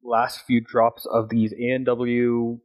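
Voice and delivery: sipping through a straw while talking; speaking between sips; while sipping a drink. Real, not acted. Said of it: "trying to sip the last few drops".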